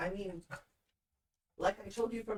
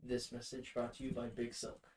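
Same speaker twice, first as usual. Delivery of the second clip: mock ad announcer; 8 semitones lower, 3 dB quieter than usual. Fake ad tag.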